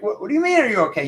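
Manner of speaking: high, incredulous "what do you mean"; mock baffled retort. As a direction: play the upset friend, thrown by the question. Sad person's baffled retort.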